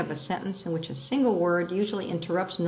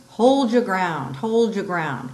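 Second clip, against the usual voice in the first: loud, slow battle cry; rally the troops to stand firm; 6 dB louder, slower than usual. Shown as a demonstration. Teacher declaiming to the class, loud rallying cry.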